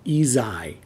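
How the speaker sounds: whispered "e zai"; Vietnamese letter name. Shown as a demonstration. Teacher naming the Vietnamese letter, whispered. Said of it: "And the Y".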